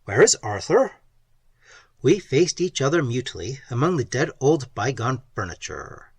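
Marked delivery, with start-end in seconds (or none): 0.1-0.9 louder, stress on is; louder repeat. A narrator's reading. Repeating the question louder for the deaf old aunt. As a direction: say it again, louder, leaning on is.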